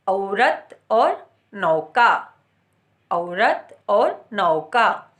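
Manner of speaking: औरत और नौका slowly, with the औ stretched; slow, clear demo of the औ vowel; au sound. Shown as a demonstration. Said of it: "बड़े ओ में हम क्या बोलते हैं".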